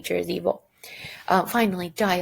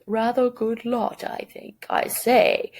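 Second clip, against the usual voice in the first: mock British accent; 4 semitones higher, 4 dB louder, slower than usual. Shown as a demonstration. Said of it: "it shows a British dialect".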